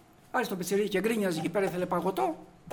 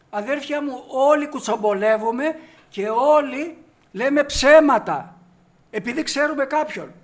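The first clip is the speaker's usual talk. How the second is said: preaching at full force; 5 semitones higher, 9 dB louder than usual. Acted. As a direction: call out to the congregation. Appeals to the congregation loudly.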